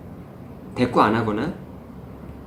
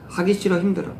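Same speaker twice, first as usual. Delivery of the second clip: put-on higher whining kid voice; whiny child; 7 semitones higher than usual. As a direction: play the child begging to stop. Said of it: "받아쓰기를 가르칠 때". (높은 목소리로 칭얼대는 아이)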